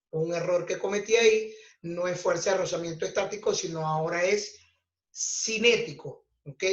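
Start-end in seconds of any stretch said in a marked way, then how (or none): 5.1-6.3 "cinético" drawn out slowly, stressed on the "né". Shown as a demonstration. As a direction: lean on the accented E in "cinético". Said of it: "Con acento en la E".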